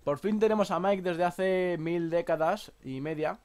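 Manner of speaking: talking with apple in mouth; chewing through the words; mouth full. Real, not acted. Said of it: "estoy con una manzana en la boca".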